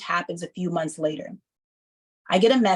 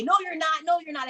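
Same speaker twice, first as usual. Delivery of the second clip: laughing dismissively; 9 semitones higher than usual. Retold or imitated. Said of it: "she would laugh and say".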